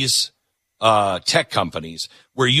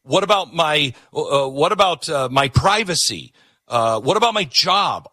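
mock worried citizen; 5 semitones higher than usual. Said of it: "you're gonna be like".

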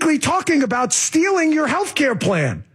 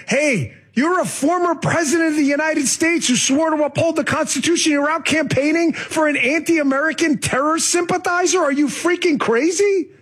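higher-pitched exasperated rebuke; mock scolding; 4 semitones higher than usual. Radio host pretends to scold a former president, exasperated. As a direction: chew him out in disbelief, pitched up. Imagined scolding to wake up Obama.

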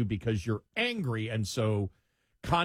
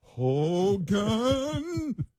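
loud, high put-on Klink yell; mock colonel calling Hogan; shouting Klink; 8 semitones higher, 4 dB louder than usual.

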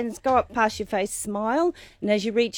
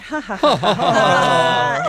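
ha ha ha laughed on the breath; chuckle on the out breath; 4 dB louder, slower than usual. Shown as a demonstration. Teacher leading hosts in laughter yoga, chuckling. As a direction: let a chuckle out. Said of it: "do a little chuckle on the out breath".

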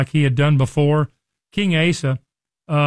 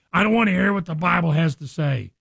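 mock angry retort. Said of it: "people that lash out to me".

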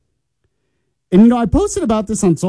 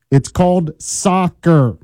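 very slow, every word spaced; said slowly; much slower than usual. Shown as a demonstration. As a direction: drag out It's called soccer for the listeners. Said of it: "I'll say it slowly for you".

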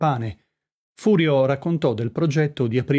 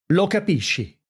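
higher-pitched, incredulous retort; indignant echo, pitched up without full volume; mild acted yell; 7 semitones higher than usual. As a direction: throw it back as an understated shout. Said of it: "urlò Brizio".

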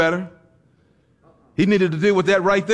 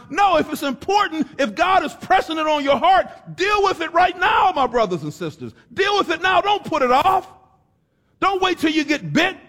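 higher, pressing preacher's warning; full-force preaching; 11 semitones higher than usual. Acted. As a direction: drive the warning home from the pulpit. Preacher urging action now.

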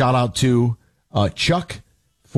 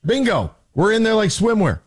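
higher, gleeful cheer over the touchdown; excited fan; 10 semitones higher than usual. Retold or imitated. Lions fan cheering the opening touchdown, gleeful and high. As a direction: bounce it up like a thrilled fan.

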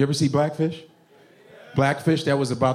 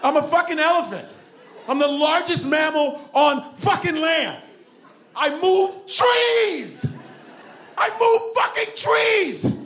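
high booming elephant shout; 11 semitones higher, slower than usual. Pretend. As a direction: stretch each word out like a huge beast.

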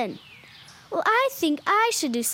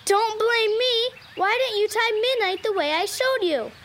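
higher, defensive scolding; mad; 3 semitones higher than usual. Acted. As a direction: throw the blame back at a friend. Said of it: "I didn't mean to sound mad at you".

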